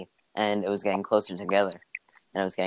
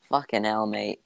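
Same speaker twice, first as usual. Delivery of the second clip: put-on Australian accent. Player recalling being killed in paintball, in an Australian accent. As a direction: imitate your own most Australian accent. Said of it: "in the most Australian accent I could".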